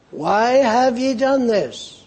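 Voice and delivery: God asking his people why they strayed; God's pleading question. Acted. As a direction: lift the voice and plead slowly. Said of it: "God wants to know why".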